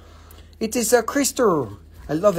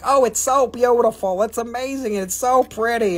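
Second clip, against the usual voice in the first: gushing seller; 4 semitones higher than usual. Retold or imitated. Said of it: "they're just like".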